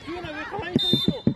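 loud call across the field; yelling from the sidelines. Real, not acted. Parent calling onto the pitch.

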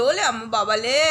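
cooing pet talk. Real, not acted. Cooing baby talk to dog.

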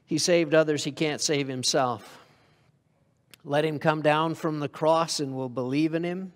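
scornful mock taunt. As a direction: sneer it like a scoffer at the cross. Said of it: "come by to mock him".

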